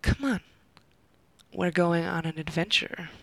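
teasing, playful invitation; suggestive. Acted. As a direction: say it with a sly suggestive lilt. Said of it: "with a voice dripping in suggestive intonation".

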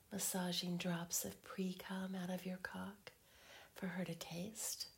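intimate teasing whisper. Acted.

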